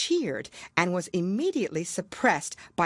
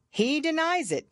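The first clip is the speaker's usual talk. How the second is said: pompous king; 11 semitones higher than usual. Acted. King voiced.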